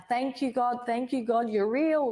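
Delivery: hushed, high-pitched re-enacted crying; imitating tearful thanks. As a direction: thank God as if through tears, lightly acted. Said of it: "I'm crying and I'm like".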